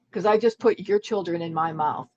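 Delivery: usual speaking voice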